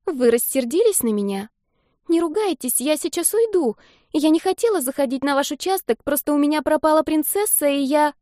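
put-on high child's voice, rushing to apologise; a scared kid afraid of being scolded; worried little girl. A narrator's reading.

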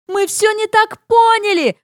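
high, yelling apology; yelling at full voice. Retold or imitated. Suze yelling up that they got it all wrong. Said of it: "во всю глотку вопит Сьюзи".

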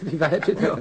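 puzzled, laughing through the words; laughing question. Acted. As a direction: laugh it off while asking. Confused, laughing at odd remark.

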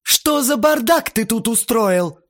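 slow, high, loud outcry; wailing yell. A narrator's reading. Aunt discovers the mess in the room, yelling. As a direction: yell it out in drawn-out outrage. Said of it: "раздался её вопль".

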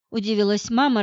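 usual speaking voice

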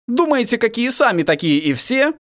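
high, indignant snap at the captives; angry retort. Acted. Prince rebukes the defeated enemy, high and angry. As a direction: let the anger break through. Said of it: "разозлился Владимир".

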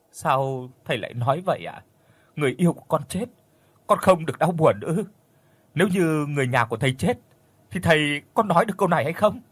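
she lashes out at the master in grief; heated grieving protest; overwrought outburst. A narrator's reading. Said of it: "Trang bắt đầu đã quá khích".

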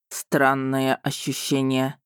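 ниже и медленно, протяжно; drawn-out, low, detached dragon; протяжно, дракон. Acted. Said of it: "неожиданно протянул Рейн". (раненый дракон протяжно, низко и медленно)

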